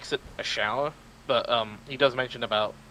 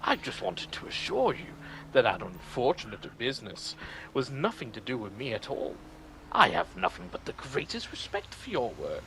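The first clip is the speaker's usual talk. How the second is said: condescending imitation; 5 dB quieter than usual. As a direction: feign respect with oily politeness, as an impression. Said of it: "goes out of his way to say".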